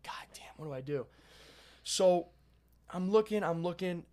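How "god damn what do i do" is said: whispered, softer curse under the breath; panicked whisper. Retold or imitated. Hiding in the client's bathroom, he whispers his panic to himself. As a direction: hiss it so nobody outside hears.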